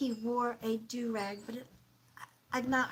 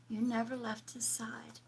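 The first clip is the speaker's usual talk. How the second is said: hushed, softer whisper; 6 dB quieter than usual. Real, not acted. Medium softly relaying a husband's thanks to his widow. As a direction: breathe the thanks gently.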